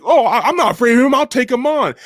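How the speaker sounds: high, fast, laughing granny boast; granny bragging she'll take him on, laughing; mock old granny.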